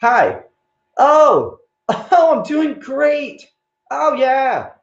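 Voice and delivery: high, gushing put-on joy with laughter; exaggerated swooning phone enthusiasm; faked delight. Shown as a demonstration. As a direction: fake a thrilled phone chat, pitched high. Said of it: "Go like this".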